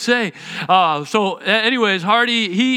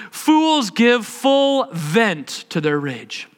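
slow scripture reading; much slower than usual. Shown as a demonstration. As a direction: read slowly like quoting the Bible. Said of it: "Proverbs twenty-nine eleven, uh, says".

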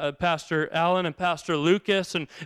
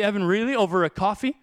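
gentle Jesus rebuke. Pretend. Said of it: "Imagine if Jesus walked up".

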